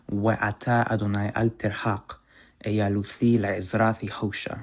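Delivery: Hebrew verse read with th in eyaluthi and le'ezrathi; measured Hebrew reading, th as in English thin; chosen Hebrew pronunciation. Shown as a demonstration. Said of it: "that is read, by the way, in the chosen pronunciation".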